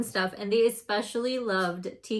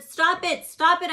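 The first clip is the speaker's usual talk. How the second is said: cried out; 7 semitones higher, 5 dB louder than usual. A narrator's reading. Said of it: "I cried".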